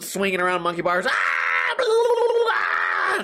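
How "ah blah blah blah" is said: high mock shouting of playing kids; kids yelling. Imitating kids yelling on the playground. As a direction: screech like kids on the monkey bars.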